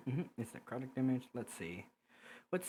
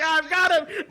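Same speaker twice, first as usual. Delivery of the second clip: high, loud shout through laughter; cocky excited cry; 11 dB louder than usual. Acted. Game master voicing Verb about to parry, excited cry. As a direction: crow it loudly, pitched way up. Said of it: "Verb is like".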